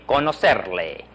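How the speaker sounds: "conocerle" with an s sound for the middle c. Shown as a demonstration. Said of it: "middle C is pronounced like an S".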